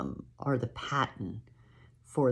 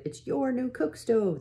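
put-on high, delighted little-girl voice; excited child shout; 12 semitones higher than usual. Girls showing Ma the stove, high excited shout. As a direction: squeal it at Ma with glee. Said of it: "they shouted".

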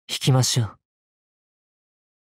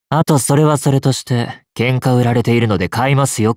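louder, raised-voice challenge; firm, louder retort; polite combativeness; 6 dB louder than usual. Acted. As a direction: take up the fight, loud but courteous. Politely accepts a fight.

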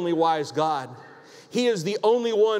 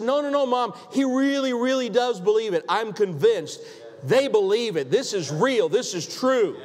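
higher, urgent daughter insisting to mom; earnest daughter pleading; 5 semitones higher than usual. Retold or imitated. Daughter convincing her doubting mom, higher and urgent.

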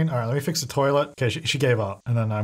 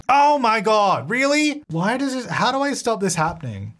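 exasperated disbelief; 7 semitones higher than usual. Real, not acted. Gamer finds the toilet knocked over again, high exasperated cry. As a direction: groan at the broken toilet in disbelief.

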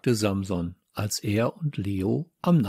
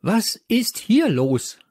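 slow, loud, raised teacher's demand; thundering; 11 semitones higher, 5 dB louder than usual. A narrator's reading. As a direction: thunder it across the classroom. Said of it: "donnerte Popos Stimme".

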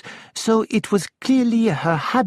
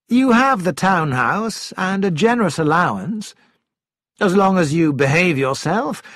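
raised, cold, reproachful husband; stern husband; 3 semitones higher than usual. Acted. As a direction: confront her, firm and cold. Husband coldly confronts wife.

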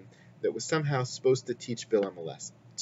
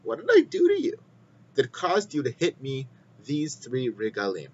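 talking donkey. Acted. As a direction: play the donkey pleading with its master, pitched way up. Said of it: "The donkey says to Bilam".

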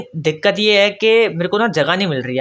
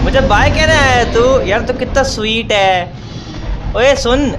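mock sweet farewell; 5 semitones higher than usual. Real, not acted. Mock-sweet goodbye to the mob.

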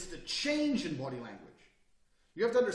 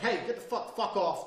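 loud, aggressive warning; 4 semitones higher, 4 dB louder than usual. Shown as a demonstration. Man warning off a rowdy guy, aggressive. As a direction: bark it like the big man. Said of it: "I've been the big man".

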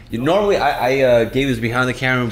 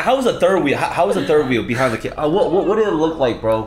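high, loud eager questions; excited; 6 semitones higher, 4 dB louder than usual. Real, not acted. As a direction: pepper him with teasing questions.

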